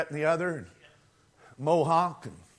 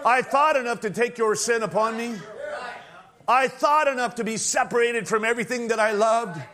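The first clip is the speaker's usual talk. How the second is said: Christ's voice; 3 semitones higher than usual. Acted. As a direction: speak as the Savior to his bride, fervent. Voices Christ speaking to bride.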